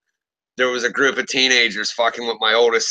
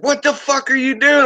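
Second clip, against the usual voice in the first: mock shocked cop; 12 semitones higher than usual. Cop at a traffic stop, high mock outrage. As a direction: yelp it like a startled officer. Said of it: "he's like".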